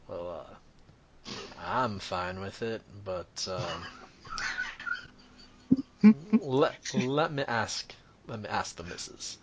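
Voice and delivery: halting, slow, mostly low and soft; cowed father. Acted. Father hesitating to ask his wife, cowed and quiet. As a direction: hedge meekly, with long hesitations. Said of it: "He kinda cows a little bit".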